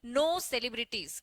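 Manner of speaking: धीरे धीरे, हर शब्द अलग करके बोलो; लिखवाने वाले अंदाज़ में बहुत धीमे; slow dictation. Shown as a demonstration. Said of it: "लिख लो ये स्टेटमेंट". (छात्रों को नोट्स लिखवाते हुए धीमी आवाज़)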